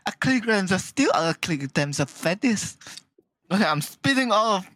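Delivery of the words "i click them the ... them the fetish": lightly put-on British-American blend; mixed British-American accent. Demonstrating to friends, light mix of British and American accents. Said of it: "I can do a mix of".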